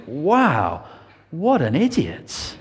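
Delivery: scoffing wow with a laugh; amused, slowed disbelief; mocking laugh. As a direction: laugh at his foolishness. Imagined onlooker's real reaction.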